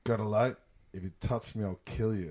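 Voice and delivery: low, soft, unruffled threat; calm Bruce Willis. Retold or imitated. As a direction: threaten quietly without any heat. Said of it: "Bruce Willis is just calm as fuck".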